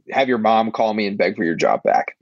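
hushed aside, barely voiced; whispering. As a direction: whisper it like a secret. Boss's aside in a quote.

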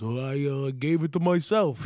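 lightly voiced dopey boxer, like Yogi Bear; a hint of cartoon bear in the boxer; mock the boxer with a touch of Yogi Bear; Rocky impression. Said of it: "He sounds like Yogi Bear".

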